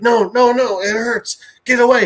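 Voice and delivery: acted patient fending people off; pained protest. Patient panics as treatment hurts.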